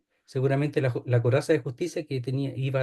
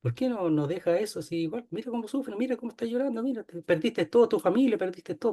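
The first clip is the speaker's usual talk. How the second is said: higher, softer sly taunting devil; devil taunting softly; 6 semitones higher, 5 dB quieter, faster than usual. Acted. The devil whispering to a believer, sly and soft. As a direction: coax him to give up, softly and high. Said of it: "Te va a decir".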